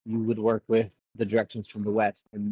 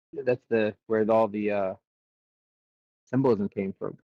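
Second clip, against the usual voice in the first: hiccups with a mouthful; talking through hiccups; hiccuping while eating. Real, not acted. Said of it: "Sorry, I got hiccups now".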